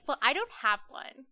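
light imitation of a Valley girl; Valley girl accent. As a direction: put a hint of Valley girl on it. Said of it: "she kinda said it like that".

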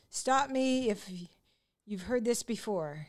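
slow start, stumbling on the title; halting, then confidently wrong; imitating a botched introduction. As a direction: mimic an emcee fumbling the name. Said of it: "he introduced me and he goes".

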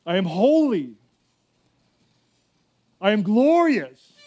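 slow, tender prophetic voice of God; a pastor voicing God's tender word to the church; voice of God speaking. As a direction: speak as the Lord to his children, gently.

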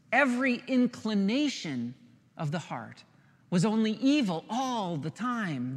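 pastor leans on "Every" and "evil" for the congregation; emphatic rereading. Shown as a demonstration. Pastor rereads the verse, pressing "Every" and "evil". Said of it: "You notice the emphasis?".

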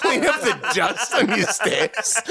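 high-pitched imitation Jewish accent. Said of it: "like, Jewish accent".

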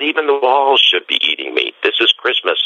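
high, ringing exclamation; excited proclamation. Retold or imitated. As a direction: proclaim it with joy. Francis proclaims at Christmas.

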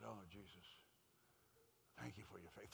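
low, soft plea; retold meek prayer. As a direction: pray it under your voice, discouraged. Retold discouraged private prayer.

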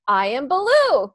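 voiced horse declaring his name; horse announcing himself. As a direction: announce the name like a grand reveal. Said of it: "I heard him say".

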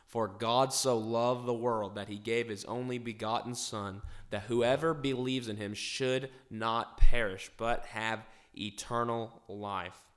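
measured verse reading, slowing towards the end; Scripture reading. Acted. Host reads the key verse to the group, slow Scripture reading. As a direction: recite it solemnly, drawing out the final words. Recites John three sixteen.

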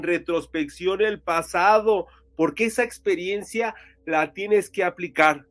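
slow, solemn mystic announcer; horoscope reading. Acted. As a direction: read each sign like a blessing. Reads the horoscopes on air. (lectura de horóscopo solemne)

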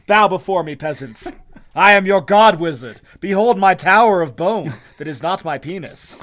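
loud booming god wizard; megalomaniac rant. Pretend. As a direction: proclaim like a mad wizard king. Playing a god wizard, laughing.

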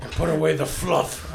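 soft, slow mock-ASMR delivery. Guest continues the ASMR bit about diet, hushed. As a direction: draw it out softly for the mic. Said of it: "Whisper, do some A S M R".

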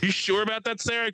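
high, teasing disbelief; mock doubt. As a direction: needle her with a skeptical sneer. Roasting bingo player on mic.

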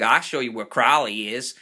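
lightly put-on British accent; mild mock British accent; imitated British accent. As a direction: quote him with a hint of British. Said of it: "a moment ago he was British".

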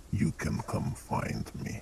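parting whisper. Acted.

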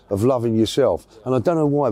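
usual speaking voice

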